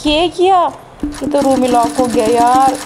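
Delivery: jolted gasp of a question; sudden alarm. Real, not acted. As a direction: caught off guard by a locked door. Room suddenly locks.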